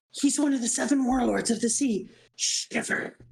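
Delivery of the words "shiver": breathy spooked whisper; whispered shiver. Acted. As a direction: whisper it like a chill. Reacting to a fearsome warlord.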